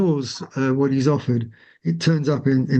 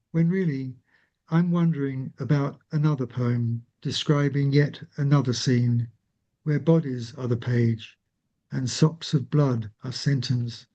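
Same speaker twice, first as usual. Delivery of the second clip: poetry reading; 2 semitones lower than usual. Acted. Reads her poem aloud.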